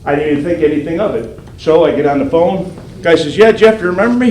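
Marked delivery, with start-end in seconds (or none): 3.4-4.3 eager caller imitation.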